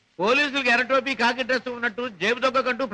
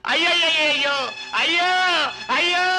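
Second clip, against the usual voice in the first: hammed-up lament; 4 semitones higher than usual. Fake lament accusing the driver.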